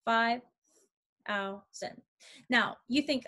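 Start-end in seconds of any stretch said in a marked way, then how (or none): 0.1-2.0 "five thousand" as five, thou, sand; syllables emphasized. Shown as a demonstration. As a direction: leave a clear gap after each syllable of "five thousand". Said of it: "now emphasize the syllables".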